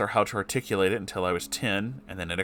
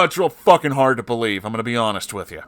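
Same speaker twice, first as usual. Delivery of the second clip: usual speaking voice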